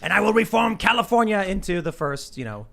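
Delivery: hammy grandiose politician voice; lightly voiced supervillain decree; mock villain speech. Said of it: "and says".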